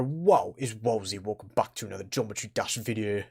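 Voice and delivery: a quiet, understated mock intro; Wozy impression. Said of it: "pretend to be other YouTubers".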